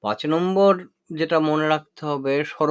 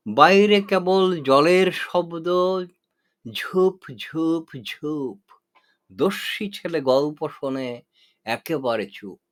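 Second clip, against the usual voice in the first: poem recitation. Shown as a demonstration. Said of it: "রবীন্দ্রনাথের কবিতা থেকে দৃষ্টান্ত দেওয়া যাক". (রবীন্দ্রনাথের কবিতা ধীরে আবৃত্তি)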